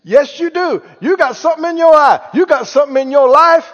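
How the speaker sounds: high, emphatic, superior accusation; acting superior. Preacher mimics someone spotting another's fault, superior and insistent. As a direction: play a pushy, superior fault-finder. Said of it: "you get to acting superior".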